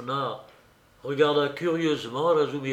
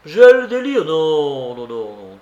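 feverish cry; 2 semitones higher, 12 dB louder than usual. Acted. Raskolnikov in fevered protest.

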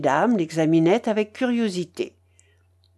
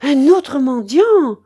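slow, high, drawn-out shout; loud cry; 6 semitones higher, 7 dB louder, slower than usual. A narrator's reading. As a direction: call out loudly for all to hear. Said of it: "cria la babouchka". (cri fort, aigu et traînant)

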